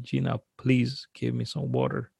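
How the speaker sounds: faint, drained request for water; mildly acted exhausted murmur; barely able to speak. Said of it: "I can barely say words".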